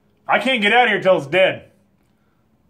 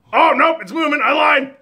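screaming at a spider; 10 semitones higher, 5 dB louder than usual. Real, not acted. Huge spider suddenly moves.

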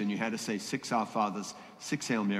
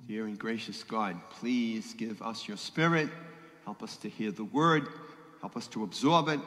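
opening prayer. Acted.

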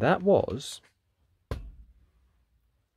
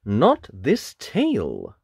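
grinning wolf; 5 dB louder, slower than usual. Acted. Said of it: "the wolf grinned".

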